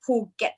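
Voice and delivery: "Phuket" as Poo-get, with a P; two beats in "Phuket", poo then get; Thai-style "Phuket", no F sound; correct Thai pronunciation. Shown as a demonstration. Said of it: "something like this".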